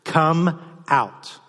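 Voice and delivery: a commanding call, rising on "come out"; calling out loudly. Acted. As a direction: call him from the tomb. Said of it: "he cries out in a loud voice".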